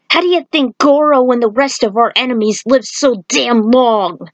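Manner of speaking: urgent monk voice telling of a curse; ranting monk. Acted. Monk answers Lao.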